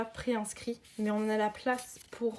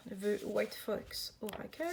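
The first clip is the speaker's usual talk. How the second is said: French-accented English; 4 dB quieter, slower than usual. Real, not acted. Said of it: "lire avec mon accent de merde".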